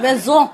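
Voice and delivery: MAISON with rounded lips, final N cut; rounded French maison. Shown as a demonstration. Showing learners the mouth shape, rounded French maison. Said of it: "Or your mouth around".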